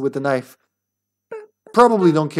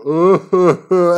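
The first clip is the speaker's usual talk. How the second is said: moan; 5 dB louder than usual. Retold or imitated. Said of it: "and then a little deeper".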